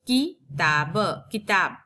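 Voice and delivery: किताब drawn out, syllable by syllable; slow syllable split. Shown as a demonstration. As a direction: teach किताब slowly, part by part. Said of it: "उच्चारण एकदम छोटा, जल्दी होता है". (किताब को धीरे धीरे तोड़कर बोलना)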